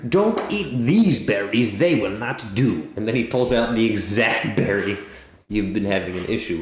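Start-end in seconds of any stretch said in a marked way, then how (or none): 0.1-2.9 bug voice. Acted. Bug gives advice.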